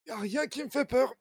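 high, proud, cocky boast; boastful boatman. Acted. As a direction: puff up like a show-off. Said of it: "il fait".

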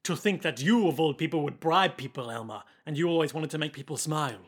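lightly put-on French accent; Huey's French accent. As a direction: chide gently in a mock French accent. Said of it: "speaking with a French accent this whole time".

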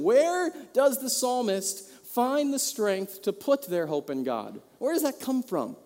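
ordinary talk

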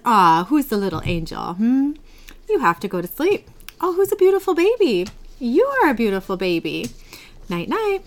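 lightly acted baby talk with lilting highs; cooing to baby. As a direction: coo like a grandma at bedtime. Grandma voiced putting baby to sleep.

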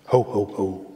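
low, soft jolly Santa laugh; Santa's ho ho ho. Retold or imitated. Pastor voicing Santa for the congregation, low jolly ho ho ho. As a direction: boom it out like Santa Claus.

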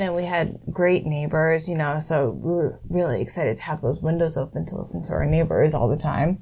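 dry, deadpan irony; sarcastic. Real, not acted. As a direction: say it with obvious sarcasm. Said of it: "Are you being sarcastic?".

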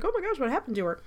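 high, rushed reaction to a discovery; retold astonishment. Writer retelling her reaction to a vanished woman, astonished. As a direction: blurt it out fast and high, re-enacting curiosity. Acts out own curious reaction.

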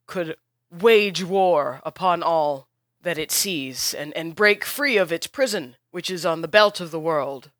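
smooth over the quarrel before explaining; placating host. Acted. Host interrupts arguing heroes to explain the war, lightly voiced.

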